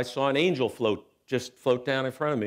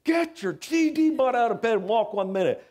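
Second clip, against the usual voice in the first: gruff father; 10 semitones higher than usual. Retold or imitated. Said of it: "He goes".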